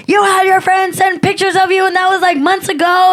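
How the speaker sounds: high-pitched indignant rant; worked-up telling-off; retold confrontation. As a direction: accuse him, voice pushed way up.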